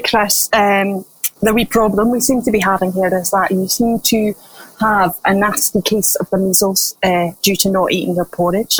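put-on Scottish accent. Tricorder breaks news of measles to patient, in a Scottish accent. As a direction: give the diagnosis in a Scottish accent. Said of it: "I'll do it in a Scottish accent".

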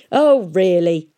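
loud, slow, outraged "oh really"; indignant cry. Acted. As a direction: play the offended gentleman. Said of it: "cried Pomeroy".

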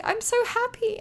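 very high cutesy mock of the skater; imitating the skater. Fan imitating the happy skater for her co-host, very high. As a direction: squeak it out high like a delighted kid. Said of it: "And then he was like".

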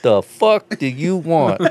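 slow, drawn-out surly grunt; rude drive-thru worker. Retold or imitated. Fed-up worker at a drive-thru to a customer, slow surly. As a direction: sneer it slowly like a fed-up worker. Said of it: "Like Popeye".

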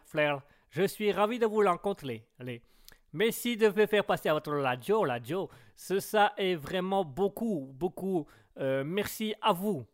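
put-on caricatured Chinese accent, last syllables echoed; petite Chinoise. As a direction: play a little Chinese woman with a verbal tic. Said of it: "On va faire la petite chinoise". (accent chinois caricatural avec tic verbal)

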